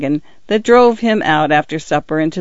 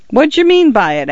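gruff constable; 8 semitones higher than usual. Acted. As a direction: demand an answer like a suspicious policeman. Constable Winch's voice.

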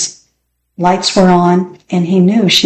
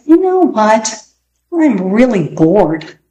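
put-on bored boy; 2 semitones higher, slower than usual. Peter slouched in a chair, telling his sister he's bored. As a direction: stretch it out like a kid slumped in a chair. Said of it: "slouched in a chair".

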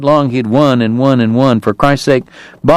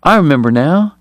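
lilting, high feminine character voice; airy; 7 semitones higher than usual. A narrator's reading. Kate toying with Greer over the bet, airy. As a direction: swoop up high on a feigned recollection. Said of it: "Kate asked Greer airily".

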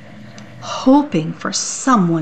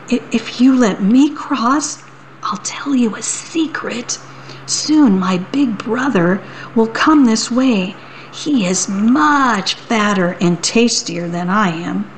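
sly little goat. Acted. Little goat bargaining with the troll. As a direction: lean in and share the secret.

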